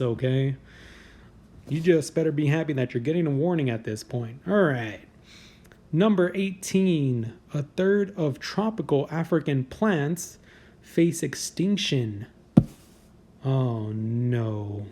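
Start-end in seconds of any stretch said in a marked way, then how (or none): 5.9-12.3 slow, deliberate countdown announcer read; drawn-out headline announcement. Acted. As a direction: announce the entry like a list show host. Reads list headline.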